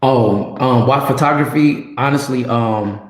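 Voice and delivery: hollow echoing room sound; cave echo. Real, not acted. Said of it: "you sound like you're in a cave".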